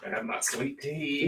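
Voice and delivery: mock Southern accent. Joking Southern voice bit.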